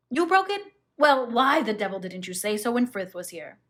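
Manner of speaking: a high, loud burst of disbelief, then exasperated; astonished. Acted. Husband hearing his wife broke the cupid, astonished. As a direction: caught off guard and indignant. Husband reacts to her confession.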